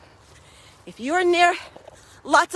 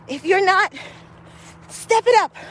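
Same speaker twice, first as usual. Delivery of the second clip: loud coaching; 6 semitones higher, 3 dB louder than usual. Real, not acted. Coach urging on climb.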